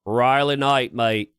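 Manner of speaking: a light mock Australian accent, lightly done. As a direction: play at an Aussie greeting. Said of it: "How's my accent?".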